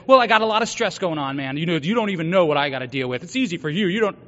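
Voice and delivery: quick, defensive brush-off, a bit fast; defensive excuse. Retold or imitated. Imagined self making excuses, quick and defensive. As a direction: rattle off excuses like a man on the defensive. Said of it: "I could have said".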